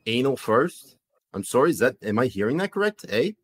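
polite, puzzled Canadian with an "eh"; comic Canadian accent, rounded "sorry". Acted. Host checks what the visitor said, Canadian accent. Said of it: "that was a good Canadian accent".

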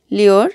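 লিওর slowly, with "u" as an "i-o" glide; demonstrated pronunciation. Shown as a demonstration. Teacher showing "u" after L, লিওর said slowly as "li-or". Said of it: "এর উচ্চারণ হবে".

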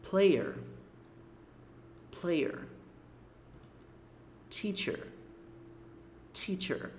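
"There", "Player", "Teacher" softly, the final r lightly rounded; a light pout on each final r; light lip rounding. Shown as a demonstration. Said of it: "é um biquinho leve". (biquinho leve no r final)

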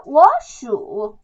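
워수 with the first syllable rising, as a second tone; tone change demo. Shown as a demonstration. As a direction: show 워수 turning the third tone into a rising one. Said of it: "어떻게 되냐면".

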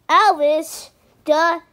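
loud sing-song taunt; mocking shout.

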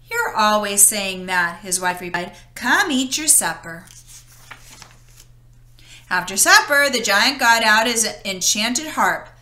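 lively read-aloud story voice; storybook narration. A narrator's reading. Narrator reading Jack and the Beanstalk to children, storytelling. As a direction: tell it like a bedtime story to kids. Reads fairy tale to children.

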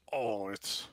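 put-on happy drunk boasting about his cushy job; cheerful ogre. Ogre with ale praising his job, lightly voiced and cheerful.

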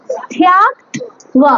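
স্থ্যাক ত্ব spelled out slowly, স্থ্যাক held apart from ত্ব; ধীরে ধীরে স্থ্যাক ত্ব আলাদা করে বলা; slow syllable drill. Shown as a demonstration. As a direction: pronounce স্থ্যাক then ত্ব, slow and separate.

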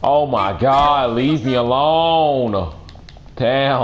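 drawn-out high whine; whiny slow high voice. Pretend. Pestered, whining slow high.

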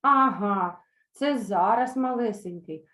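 put-on sarcastic, indignant young mares; mild mock outrage. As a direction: scoff at the tiny horn. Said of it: "обурилися молоді кобили".

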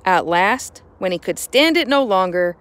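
put-on expressive read-aloud storytelling for kids; story narration. A narrator's reading. Teacher reading a picture book to the class, expressive narration. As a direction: draw the children into the tale.

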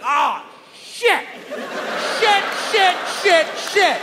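high-pitched pizzeria man losing it; exasperated mock shouting. Pizza man's panicked outburst imitated.

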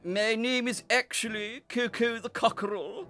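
loud, high, self-important declaration; lofty cockerel. A narrator's reading. Cockerel corrects the little breeze, lofty. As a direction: announce yourself with great pomp. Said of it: "he declared loftily".

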